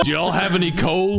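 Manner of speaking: put-on Southern twang; Southern accent. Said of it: "you just switched accents there".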